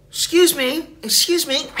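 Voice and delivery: high, sing-song mock-polite plea; overly polite excuse me. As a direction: sweetly fake politeness. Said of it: "I was like".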